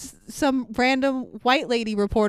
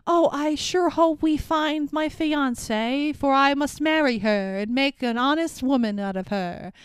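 fifties stage play; 3 semitones higher than usual. Retold or imitated. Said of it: "a fifties stage play".

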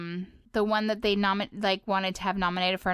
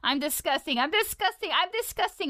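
mock self-disgust; 8 semitones higher than usual. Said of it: "Disgusting, diary".

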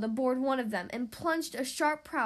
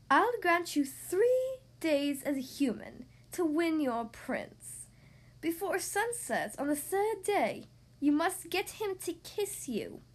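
sea witch voice; 3 semitones higher, slower than usual. Acted. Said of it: "said Ursula".

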